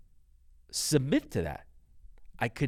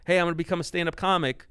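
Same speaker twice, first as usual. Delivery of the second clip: fast, high, louder announcement to dad; eager son; 6 semitones higher, 4 dB louder, faster than usual. Retold or imitated. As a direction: imitate an excited kid rushing out news.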